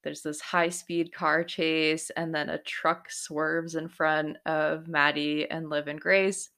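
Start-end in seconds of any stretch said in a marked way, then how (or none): none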